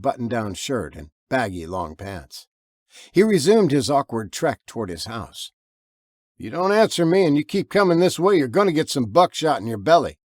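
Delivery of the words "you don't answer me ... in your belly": stern warning. Acted. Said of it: "warned Martin".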